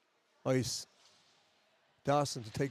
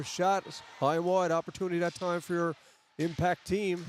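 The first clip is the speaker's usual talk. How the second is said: lively hockey play-by-play call. Acted. Hockey announcer following the puck for listeners, live play-by-play. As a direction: call the rush as it unfolds, pausing between plays.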